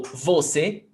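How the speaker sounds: "você" slowly, with the weight on VO; non-existent stress. Shown as a demonstration. Teacher shows a word that doesn't exist, "você" stressed on VO. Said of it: "doesn't exist".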